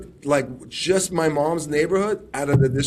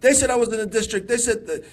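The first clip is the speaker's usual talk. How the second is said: higher-pitched imitation of a mother's dismay; upset mom; 5 semitones higher than usual. Son imitating his upset mom back from the polls, higher. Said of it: "she was so upset".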